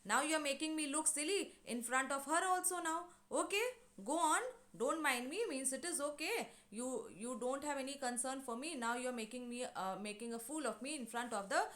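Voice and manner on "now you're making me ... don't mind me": bitter retort. Retold or imitated. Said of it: "he's bitter about it".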